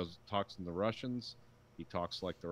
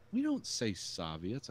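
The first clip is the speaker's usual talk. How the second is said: slow, deliberate mock correction; retold objection; 3 semitones higher, slower than usual. Quoting a fellow listener reacting to the audiobook, retold objection. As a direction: correct the word slowly and pointedly. Friend objects to odd pronunciation.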